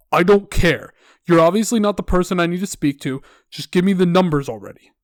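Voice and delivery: acted irritated interruption; impatient caller. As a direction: cut in as a fed-up customer. Caller cuts the rep off.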